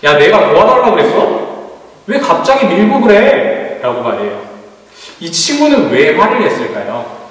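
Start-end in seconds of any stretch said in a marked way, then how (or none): 0.0-3.8 put-on mildly indignant child, raised pitch; acted angry retort. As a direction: act out an annoyed friend snapping back. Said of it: "이 친구에게 화를 내는 거예요".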